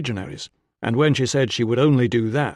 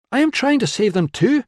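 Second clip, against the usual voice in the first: higher, louder call after someone; calling after him; 13 semitones higher, 5 dB louder than usual. A narrator's reading. Woman calling after the man hobbling away. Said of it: "she called after him".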